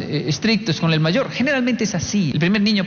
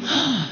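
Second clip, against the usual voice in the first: sharp acted intake of breath; startled gasp; 5 semitones higher than usual. Dad entering the bathroom, startled gasp. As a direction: gasp as if walking in on a shock.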